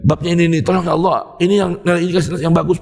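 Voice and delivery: understated conversational prayer; intimate prayer. Retold or imitated. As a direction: talk to God like a friend across the table. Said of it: "Begitu ngomongnya".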